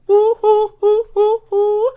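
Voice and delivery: very high, loud woo-hoos; falsetto whoops. Acted. Cheering himself on after the joke, whooping high. Celebrating his own joke.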